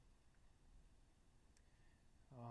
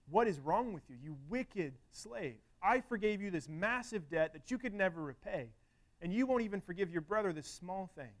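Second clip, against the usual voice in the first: infuriated, retold; 3 semitones higher than usual. Master rebukes the unforgiving slave, with restrained fury. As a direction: scold in measured outrage, leaning on key words. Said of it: "he's infuriated".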